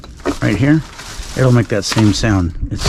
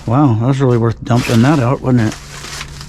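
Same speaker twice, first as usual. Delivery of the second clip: sarcastic. Acted. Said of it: "I was being sarcastic again".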